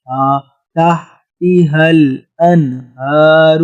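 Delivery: تحتها الانہار with a heavy, full ہ, slow; heavy sound. Shown as a demonstration. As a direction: darken the ہ in تحتها. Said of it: "آواز کو بھاری کیا".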